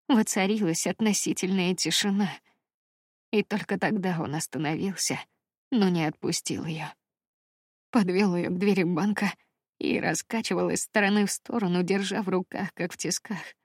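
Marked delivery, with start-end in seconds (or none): none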